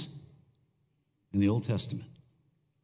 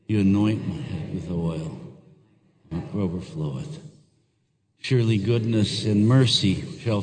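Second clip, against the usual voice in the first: solemn psalm recitation; 3 semitones lower than usual. Acted. Pastor leading church in Psalm 23, solemn recitation. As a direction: recite the psalm with the congregation, unhurried.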